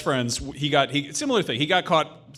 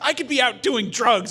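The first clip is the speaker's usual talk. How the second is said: mock teen retort; 12 semitones higher, 7 dB louder, slower than usual. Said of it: "And it's like".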